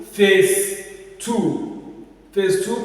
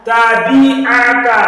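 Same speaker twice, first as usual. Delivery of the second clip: Tabi'aka slow, loud, higher, "bi" emphasized; stress on second syllable; 3 semitones higher, 9 dB louder, slower than usual. Shown as a demonstration. Teacher models for pupil, stressed "bi" in Tabi'aka. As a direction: draw out Tabi'aka, leaning on "bi". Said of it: "Emphasis on the second".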